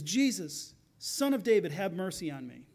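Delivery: brief loud plea, falling away; mildly acted call for mercy; crying out. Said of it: "he cries out".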